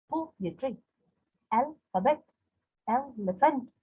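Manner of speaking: "poetry, alphabet, elephant" high first, then falling; stress on first syllable. Shown as a demonstration. Teacher listing dactylic examples, first syllable stressed. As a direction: lift PO, AL, EL, let the rest drop in "poetry, alphabet, elephant". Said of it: "one stressed and two unstressed".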